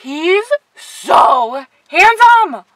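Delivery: very slow, loud swooning gush. Real, not acted. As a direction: swoon over him. Admiring the doll.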